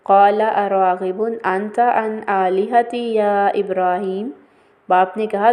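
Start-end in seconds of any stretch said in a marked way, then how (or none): 0.0-4.3 Quranic recitation. Shown as a demonstration. Quoting a Quranic verse.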